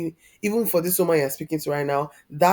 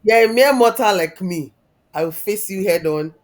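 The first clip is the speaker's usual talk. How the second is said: defiant retort; 6 dB louder than usual. Retold or imitated. Telling her father he is only human, defiant and louder. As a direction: square up to him, raising the voice on mere.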